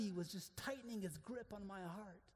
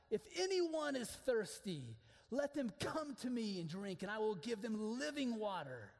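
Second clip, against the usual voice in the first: a preacher's raised proclamation of Jesus; proclaiming loudly; 3 semitones higher, 4 dB louder than usual. Retold or imitated. Preacher voicing Jesus at the festival, raised proclamation. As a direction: call it out to the crowd. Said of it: "he yelled".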